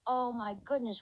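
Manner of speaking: laughing through the words; giggling while speaking. Acted. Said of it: "Loses it in fits of laughter".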